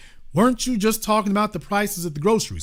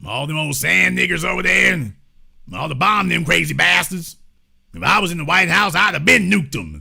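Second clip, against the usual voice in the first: put-on old racist white man. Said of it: "this is how they talk".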